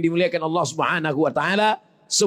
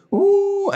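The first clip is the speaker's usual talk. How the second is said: short high loud wail; mock wail; 13 semitones higher, 3 dB louder than usual. Hired mourner's wail, hammed-up. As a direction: let out a brief hammed-up cry. Mock wailing group sample.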